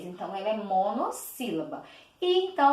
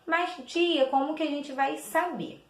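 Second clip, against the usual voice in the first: lightly voiced pupil, higher pitch; pupil's question; 5 semitones higher than usual. Pupil asks the teacher how to know, lightly voiced pupil's question.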